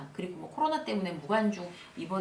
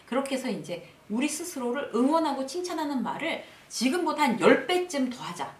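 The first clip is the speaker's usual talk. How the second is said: ordinary talk, nothing marked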